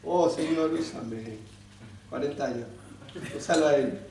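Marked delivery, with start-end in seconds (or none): 0.0-1.4 low, fading plea to God; mock meek prayer. Voices a believer's weary prayer. 2.1-2.7 low, soft, deflated voice; mock dismay. Deflated reaction to forty years.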